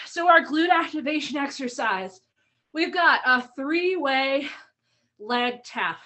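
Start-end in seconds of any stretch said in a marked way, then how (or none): 2.7-6.0 winded, breath catching between words; out of breath from the workout. Real, not acted. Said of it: "I'm feeling a little out of breath already".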